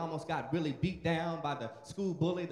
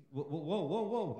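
mock king halting; 3 semitones lower than usual. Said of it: "Nebuchadnezzar said".

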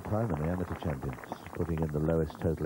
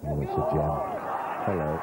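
delighted louder exclamation; excited; 3 semitones lower, 3 dB louder than usual. Real, not acted. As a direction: burst out at a great shot. Reacts to excellent pitch.

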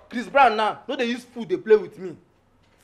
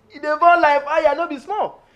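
louder; 5 semitones higher, 3 dB louder than usual. Acted. Louder repeat of line 23.

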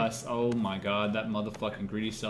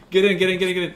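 shouting; 5 semitones higher, 10 dB louder, much faster than usual. Real, not acted. Urging teammates into car.

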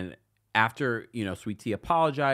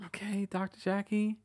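sarcastic; 10 semitones higher than usual. Retold or imitated. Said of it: "I was like".

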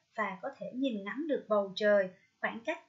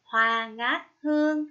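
slow, louder model reading of a verse; poem recitation; 7 dB louder, slower than usual. Shown as a demonstration. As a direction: recite the verse slowly, pausing between lines. Cô đọc mẫu khổ thơ. (đọc thơ chậm rãi, rõ từng tiếng)

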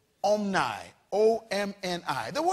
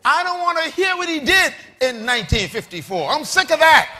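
loud, exasperated preacher; fired-up sermon delivery; forceful preaching; 6 semitones higher, 8 dB louder than usual. Real, not acted. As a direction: preach it hard, building louder.

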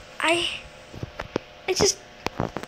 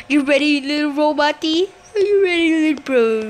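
playful coaxing; 4 dB louder, faster than usual. Pretend. Teasing a little robot character.

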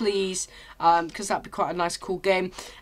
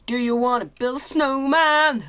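raised, sing-out holler; random shouting; 3 semitones higher than usual. Real, not acted. Player blurting a snowman line, random playful shouting. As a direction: call it out abruptly for no reason. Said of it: "I don't know why I randomly shouted that".

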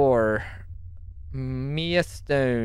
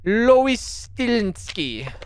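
slow madame voice, higher; 8 semitones higher, 5 dB louder, much slower than usual. Acted. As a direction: drawl the name like a madame. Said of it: "some kind of madame voice".

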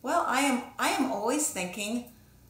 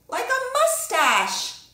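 high, slow, louder gleeful reveal; stretched out, high and delighted; 13 semitones higher, 7 dB louder, slower than usual. Acted. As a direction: unveil it like a fun surprise for the kids. Playful reveal of the drawing.

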